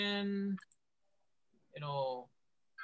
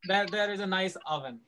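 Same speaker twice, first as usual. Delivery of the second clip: slow, louder There, there is a nice oven; native speaker voice; 4 dB louder, much slower than usual. Pretend. Teacher imitating an English speaker to students. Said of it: "এখন আপনাকে যদি কেউ বলে".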